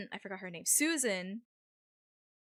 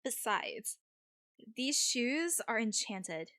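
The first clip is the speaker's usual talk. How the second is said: put-on slow, light Valley-girl drawl; a hint of Valley girl; Valley accent. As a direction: draw it out with a Valley lilt. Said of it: "give Mandy a Valley accent".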